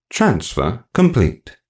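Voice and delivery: slow, even machine announcement; robotic voice; mechanical voice. Acted. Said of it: "I heard a mechanical voice say above me".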